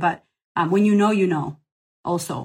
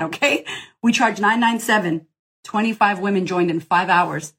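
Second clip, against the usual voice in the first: ordinary talk, nothing marked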